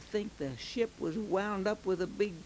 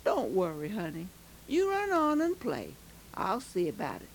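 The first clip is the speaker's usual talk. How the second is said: reassuring captain; 2 semitones lower than usual. Acted. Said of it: "He said".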